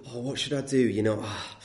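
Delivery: a touch of anguished dithering, acted out; in turmoil. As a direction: lightly play someone torn over a dilemma. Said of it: "he's in this sort of turmoil".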